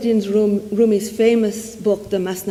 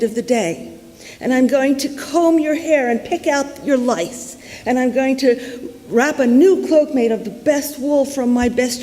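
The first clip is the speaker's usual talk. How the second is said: higher, effusive outpouring to a beloved God; crying out adoringly; 4 semitones higher than usual. Acted. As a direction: gush devotedly like a simple shepherd. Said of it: "crying out to God".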